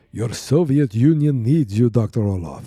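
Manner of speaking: hammy villain doctor, starting loud; theatrical villain. Acted. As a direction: proclaim it in a put-on villain voice. Acted villain speech in put-on accent.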